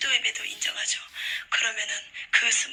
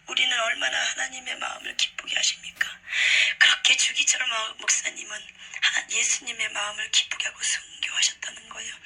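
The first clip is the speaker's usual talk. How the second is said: ordinary delivery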